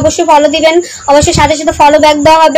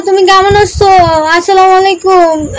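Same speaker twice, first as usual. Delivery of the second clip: lightly raised, sugary greeting; sweet-talking guy; 4 semitones higher than usual. Retold or imitated. Mocking how guys greet girls on live, sugary. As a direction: mimic a guy sweet-talking a new girl. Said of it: "মেয়েদের নতুন দেখলে সে যেভাবে কথা বলে".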